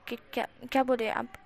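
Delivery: fast, stammering embarrassed protest; flustered stammer. Acted. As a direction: blush and stumble over the words. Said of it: "लाल होते हुए कहता है".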